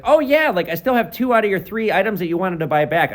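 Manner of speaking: bright, high, chirpy cheer; really cheery. Retold or imitated. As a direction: play it super cheery and upbeat. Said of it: "I'm, like, really cheery for it".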